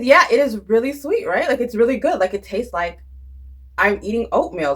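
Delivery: replaying her thrilled answer to mom; excited retelling.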